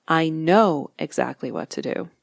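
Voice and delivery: know stressed with a rise. Shown as a demonstration. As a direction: lean on the word know. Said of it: "putting emphasis on the appropriate word".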